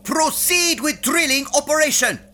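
barked order. Acted. Captain ordering the computer to drill, barked command. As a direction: bark it like a drill sergeant. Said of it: "I wouldn't mind a please".

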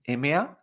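short, unstressed "ma"; neutral tone. Shown as a demonstration. Teacher showing the toneless fifth tone, light short "ma". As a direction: say "ma" briefly without any glide. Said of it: "sin hacer ninguna entonación".

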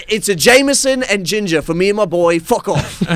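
high British barroom outburst; imitated angry dad. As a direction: imitate dad snapping while ordering drinks. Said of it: "Only when he's angry at somebody else".

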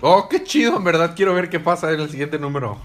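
thrilled and loud, pitch jumping high; loud, eager gush about the next issue; excited. Real, not acted. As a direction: burst out with real fan excitement. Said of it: "estoy muy emocionado".

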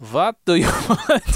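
a light Russian accent, laughing mid-line; a quick Russian-accented demand breaking into a laugh. Shown as a demonstration. Asked to do Russian, a light Russian accent. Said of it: "And now do Russian".

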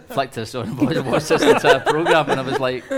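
cracking up mid-story; laughing while talking. Real, not acted. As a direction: laugh helplessly through the words.

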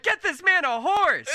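high, loud excited order; won-over guards. Acted. Guards won over by the future king, excited shout. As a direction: call it out through laughter. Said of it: "and they're like".

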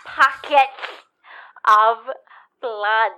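slow slurred words, numb tongue; numb mouth. Acted. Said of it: "Sorry, I'm having trouble".

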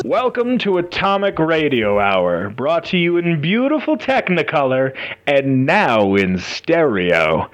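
put-on old-time radio host intro; radio announcer. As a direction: announce like a retro radio show. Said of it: "effects and whatnot that we can now do".

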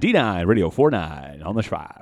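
lightly voiced radio announcer; a hint of a radio host. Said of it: "Can somebody say it in a radio voice?".

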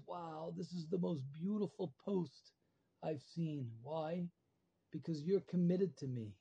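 softly spoken royal awe; hushed admiration. Acted. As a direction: drop the volume and marvel gently. King admires the naked man's post.

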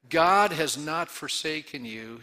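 slow, deliberate reassurance; firm declaration. Real, not acted. Pastor assuring the congregation, slow and firm. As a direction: declare it slowly with conviction. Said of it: "Can I make that declaration".

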